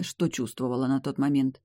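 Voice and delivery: ordinary delivery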